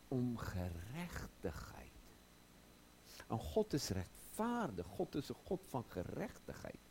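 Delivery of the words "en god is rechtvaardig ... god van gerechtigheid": normal talking voice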